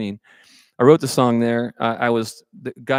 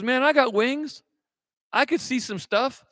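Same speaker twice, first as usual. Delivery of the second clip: crow voice; 11 semitones higher than usual. Acted.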